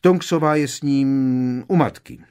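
booming to break the silence; lightly forced hearty cheer. Acted. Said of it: "zahlaholil Lupin".

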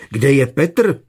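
loud, fearful cry for her missing son; frightened wail. A narrator's reading. Mother panics, asking husband where Petr is, frightened wail. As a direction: call out in sudden panic. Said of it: "zavila vyděšeně".

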